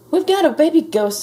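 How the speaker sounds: high, loud exclamation; agitated insistence. A narrator's reading. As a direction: insist loudly, exasperated. Frizzle insisting to the police.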